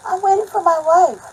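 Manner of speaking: loud, high mimicked yell; hammed-up indignant shout; rude retort. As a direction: imitate a rude man shouting back. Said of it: "He was very rude about it".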